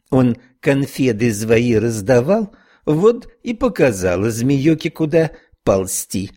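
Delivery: gossiping snail with Irish lilt; Irish accent. Acted. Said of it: "с сильным ирландским акцентом". (ирландский акцент)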